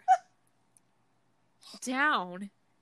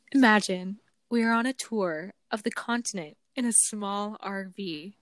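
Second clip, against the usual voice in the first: narration voice. Shown as a demonstration. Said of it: "My narration voice".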